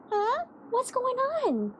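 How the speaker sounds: high, slow cooing at the cat; high sing-song pet voice. Real, not acted. Cooing at her pets.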